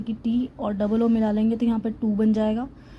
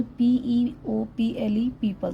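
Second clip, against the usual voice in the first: slow spelling demo; much slower than usual. Shown as a demonstration. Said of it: "ओ silent होता है".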